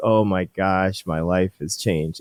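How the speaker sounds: weepy, tearful, crying through the words. Retelling what a guy said while hugging after his treatment: imitating someone crying. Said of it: "crying and he's like".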